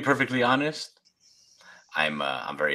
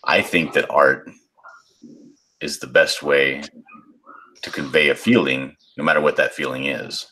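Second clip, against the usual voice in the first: smoker's rasp. Pretend. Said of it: "my sixty-year-old smoker's voice".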